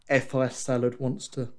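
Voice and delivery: talking through a yawn. Real, not acted. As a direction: speak mid-yawn. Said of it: "sorry, I'm yawning".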